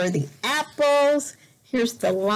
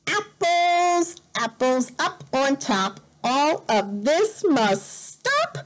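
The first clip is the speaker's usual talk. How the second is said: storybook rhyme; 3 semitones higher than usual. Acted. Parent reads the rhyme aloud to a child, sing-song.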